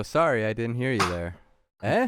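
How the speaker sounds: lightly put-on Canadian apology with a rising eh; a touch of a Canadian accent; mock Canadian politeness. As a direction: play the overly polite Canadian. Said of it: "It's also".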